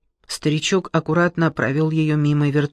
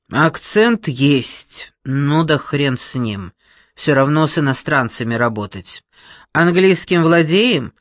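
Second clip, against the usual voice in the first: loud brash woman; brash boss; 3 dB louder than usual. Acted. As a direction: boom at her like a brash boss. Brash boss continues interview.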